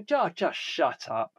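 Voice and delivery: half-laughing, exasperated; exasperated laugh at fussy diners; laughing exasperation. Retold or imitated. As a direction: tell them to shut up through a laugh. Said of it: "and I wanna go".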